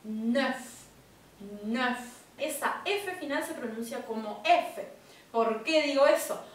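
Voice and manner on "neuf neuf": "Neuf" with an E sound and the lips rounded as for O. Shown as a demonstration. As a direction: shape an O with the mouth on "Neuf". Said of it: "haciendo la boca como una O".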